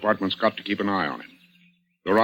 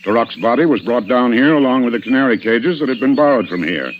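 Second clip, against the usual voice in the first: louder, driving the point home; pressing accusation; 5 dB louder than usual. Acted. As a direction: push the accusation harder, closing in. Inspector laying out the murder.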